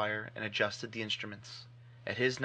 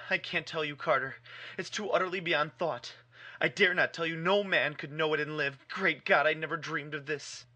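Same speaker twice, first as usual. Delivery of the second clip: higher, fearful and despairing; hoarse with fear; 5 semitones higher than usual. Acted. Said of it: "still hoarse with fear and now apparently tinged with despair".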